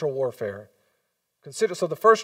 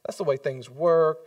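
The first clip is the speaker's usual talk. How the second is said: mock dismissive; 3 semitones higher, 4 dB louder than usual. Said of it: "and it's like".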